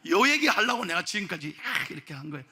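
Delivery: ordinary delivery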